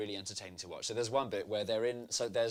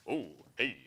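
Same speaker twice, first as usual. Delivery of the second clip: deliberately underselling. Retold or imitated. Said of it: "deliberately underselling it".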